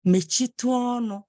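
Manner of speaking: measured, courteous request; polite, respectful. Shown as a demonstration. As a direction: ask it respectfully, without any edge. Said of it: "in a polite way".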